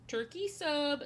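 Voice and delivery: lightly voiced chicken jockey catchphrase. Streamer joking with any two words, mock chicken jockey voice. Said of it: "in a chicken jockey voice".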